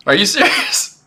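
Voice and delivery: sped-up chipmunk voice; chipmunk voice filter. Real, not acted. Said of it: "You sound like a chip-, like a chipmunk".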